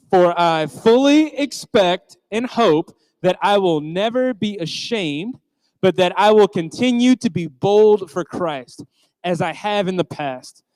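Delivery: slow, measured reading aloud together; leading a room in reciting a verse; group scripture reading. Shown as a demonstration. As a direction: read the verse slowly with the crowd. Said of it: "we're gonna read it out loud together twice".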